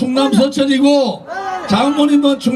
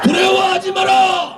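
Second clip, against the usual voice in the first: roaring rallying speech; 4 semitones higher than usual. Real, not acted. Closing rally call and response.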